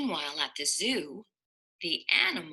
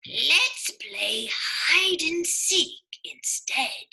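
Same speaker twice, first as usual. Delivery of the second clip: playful; 8 semitones higher, slower than usual. Acted. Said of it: "said Amos".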